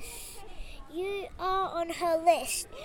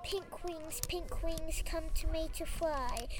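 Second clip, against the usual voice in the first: hushed, much softer incantation; whispered spell; 9 dB quieter than usual. A narrator's reading. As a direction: chant the spell under your breath. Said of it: "whispered Taylor".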